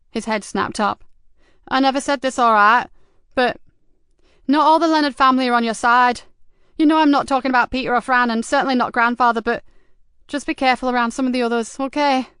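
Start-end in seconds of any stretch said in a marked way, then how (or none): 1.7-12.3 lightly voiced streetwise lad, higher and louder; a cocky teen sharing hot gossip; teenage informant. Streetwise teen Mickey tips off the detective, eager and higher. Mickey warns Joseph about family.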